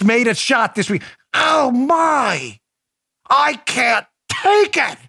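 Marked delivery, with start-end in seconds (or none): 1.3-5.0 beaver voice. Acted. Beaver voice returns.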